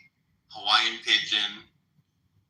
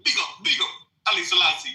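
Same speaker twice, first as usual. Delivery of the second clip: mock Rasta shout-out; 6 semitones higher than usual. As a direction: hail Selassie like a Rasta.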